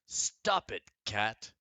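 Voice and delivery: high, loud sharp telling-off; girl yelling at a cat; scolding shout. Acted.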